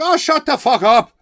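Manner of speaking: an Irishman shouting down the room; mock heckler shout. Irish guy in the crowd shouting at the comedian.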